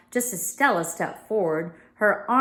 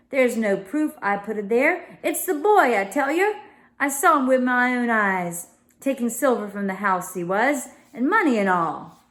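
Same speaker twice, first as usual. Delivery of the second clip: indignant servant, raised; louder, accusing the boy; Crowley voice; 3 semitones higher, 4 dB louder than usual. Acted.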